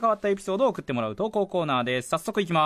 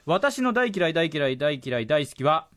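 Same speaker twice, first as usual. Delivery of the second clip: presenter reading a listener's story aloud; radio letter reading. Acted. Radio host reads a listener's confession about TBS, letter-reading delivery. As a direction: read it out clearly, phrase by phrase.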